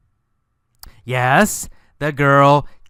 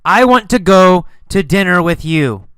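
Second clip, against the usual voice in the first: yelled; 3 semitones higher, 4 dB louder, faster than usual. Acted. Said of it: "He yelled again".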